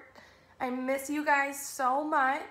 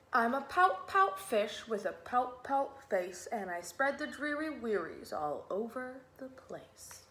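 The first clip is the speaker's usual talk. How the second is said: lilting, measured storybook rhyme; children's story reading. A narrator's reading. Teacher reading a rhyming fish book to children, storytelling. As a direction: read it in bouncy verse, sinking at the end.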